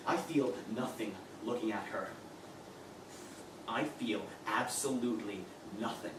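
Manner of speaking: all the feeling drained out; cold and empty. Acted. Cold detachment after rage.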